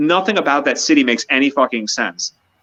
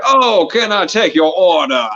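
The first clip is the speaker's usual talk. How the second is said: slow, higher mock Southern drawl; 5 semitones higher, 4 dB louder, slower than usual. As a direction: stretch it out like a New Orleans waiter. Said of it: "that Southern drawl accent".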